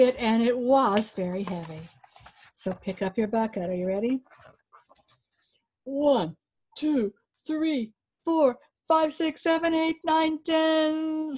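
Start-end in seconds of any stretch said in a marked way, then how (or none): 5.8-11.4 counting steps. Acted.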